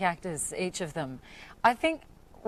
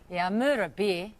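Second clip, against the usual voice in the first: Australian accent demo. Shown as a demonstration. Actor correcting the host's try, Australian accent. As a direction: repeat it in natural Australian. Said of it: "the phrase that you have to learn".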